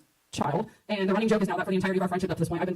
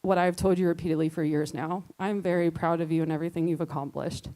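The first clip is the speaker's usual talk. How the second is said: wedding toast speech; 2 semitones lower than usual. Acted. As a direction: read it as a loving toast to the bride. Reads her toast.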